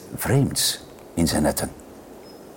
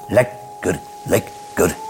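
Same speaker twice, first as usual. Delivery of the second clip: happy dog; 5 semitones lower, 5 dB quieter, slower than usual. A narrator's reading. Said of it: "kwispelde zijn staart".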